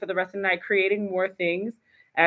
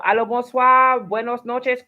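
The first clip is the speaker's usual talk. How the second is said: excited greeting; 4 semitones higher, 5 dB louder than usual. Real, not acted. Host greets listener in other languages.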